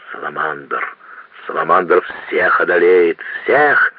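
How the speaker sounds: bellowing rage. Acted. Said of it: "вдруг заревел конректор Паульман в величайшем бешенстве".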